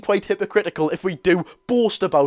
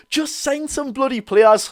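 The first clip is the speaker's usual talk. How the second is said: exasperated plea; 6 semitones higher, slower than usual. Real, not acted. Frustrated plea to the club.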